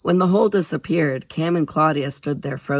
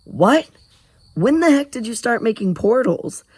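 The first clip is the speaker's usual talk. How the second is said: surprised; 9 semitones higher, 5 dB louder than usual. A narrator's reading. Cam astonished.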